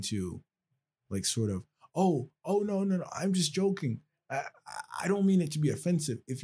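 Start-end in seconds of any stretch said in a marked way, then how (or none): 1.9-6.2 mocking imitator.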